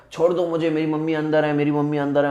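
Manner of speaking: mock yell without the volume; imitated yelling. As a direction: act out a held-back cry to be let go. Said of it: "और मैं ऐसे चिल्ला रहा हूँ". (बिना ज़ोर के चिल्लाने की नकल)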